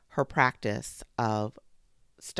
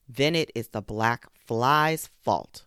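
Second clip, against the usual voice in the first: slow, louder judging lion; lightly voiced lion, slow and louder; lion's verdict; 5 dB louder, slower than usual. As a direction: hand down the verdict slowly. Wise lion gives verdict.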